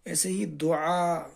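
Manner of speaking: slow, clear syllable-by-syllable reading of دعا; teacher sounding out دعا slowly for pupils; careful reading. Shown as a demonstration. Teacher reads دعا slowly for the class. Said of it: "آگے لفظ دال ہے اور الف ہے".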